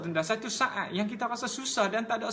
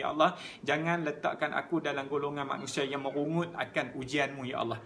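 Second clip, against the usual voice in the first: lower, earnest plea to God, only lightly acted; patient prayer; 5 semitones lower than usual. Preacher voicing a sick person praying patiently, lower, understated plea. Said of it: "dia bersabar dengan ujian".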